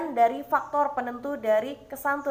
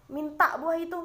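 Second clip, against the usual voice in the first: blunt, curt command with a raised pitch; a terse, impolite request; curt demand; 4 semitones higher than usual. Shown as a demonstration. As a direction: bark it out like an order, no courtesy. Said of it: "kurang santun bahasanya".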